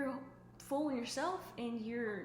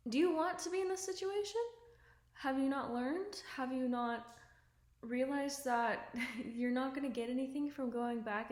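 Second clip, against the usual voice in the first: exasperated call-out; 3 semitones higher, 3 dB louder than usual. Pretend. Confronting a friend stuck in toxic relationships.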